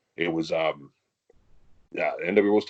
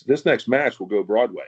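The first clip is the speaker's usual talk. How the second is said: slow, slightly louder ring announcer call; 5 dB louder, slower than usual. Retold or imitated. Announcer calls the next match, in an imitated announcer's voice. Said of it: "the announcer announces".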